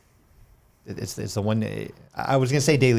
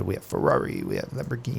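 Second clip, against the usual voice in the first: put-on Italian accent; 3 semitones higher, 6 dB quieter than usual. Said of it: "in his Italian accent".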